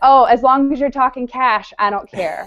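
normal talking voice

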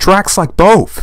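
grating, harsh, high-pitched voice. Answering Hans after his queer look, in a harsh, high-pitched voice. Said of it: "My voice was harsh and high-pitched".

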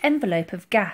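plain reading voice

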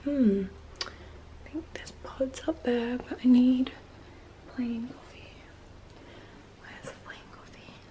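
very quiet, hushed whisper. Making coffee while trying not to wake anyone; whispering. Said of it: "I'm like whispering".

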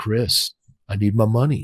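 very deep voice, slow and drawn out. Retelling the scariest call of his life from a man he owed, imitating a really deep voice. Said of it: "He had this really deep voice".

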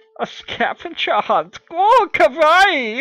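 put-on Japanese in a German accent, very high-pitched. A recruit reacts to the sergeant's order: Japanese in German accent. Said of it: "that's how you speak Japanese in a German accent".

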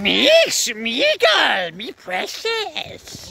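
high, slow, drawn-out, swooping creature voice. Doing a Gollum impression for the family vlog: Gollum impression. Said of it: "we've all got to do a Gollum impression".

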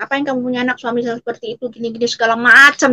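normal talking voice

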